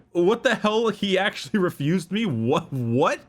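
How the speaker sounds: high-pitched dumbfounded emperor, laugh slipping in; flabbergasted. Acted. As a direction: act stunned at being refused. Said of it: "flabbergasted, dumbfounded".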